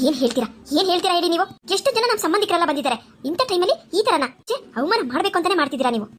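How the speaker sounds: an offended mother-in-law demanding answers; indignant groom's mother. Acted. Groom's mother scolds bride's family.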